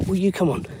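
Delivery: ordinary talk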